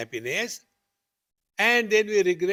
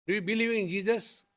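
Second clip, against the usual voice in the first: a hint of a pushy stranger, pitched higher; lightly voiced nosy stranger, probing; questioning stranger; 5 semitones higher than usual. Stranger in the parking lot quizzes the speaker, lightly voiced and higher.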